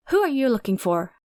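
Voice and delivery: sharp, suspicious auntie snapping at a stranger; barked question. A narrator's reading. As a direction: bark it like a hostile aunt at her gate. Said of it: "she barked".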